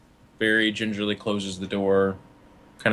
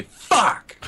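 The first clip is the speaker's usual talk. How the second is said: muffled curse; 10 semitones higher, 3 dB louder than usual. Acted. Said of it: "the door closes and you hear him say".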